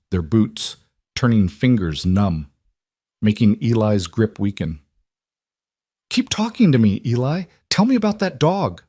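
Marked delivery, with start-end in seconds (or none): 6.1-8.8 high, strained, pleading; urgent plea. Acted. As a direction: beg him to keep talking. Father keeps son awake.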